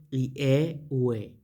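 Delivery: "i, e, u, e" as ee-EH, oo-EH; pronunciation demo. Shown as a demonstration. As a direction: sound out the vowels "i, e, u, e" in two groups. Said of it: "que es la pronunciación".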